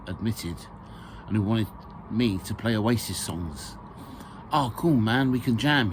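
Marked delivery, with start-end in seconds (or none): 4.5-5.9 put-on mildly excited young man; a touch of eager excitement. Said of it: "he said with excitement".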